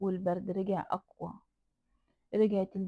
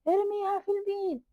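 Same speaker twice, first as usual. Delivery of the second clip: insistent order; 11 semitones higher, 5 dB louder than usual. A narrator's reading. Repeated command, second higher.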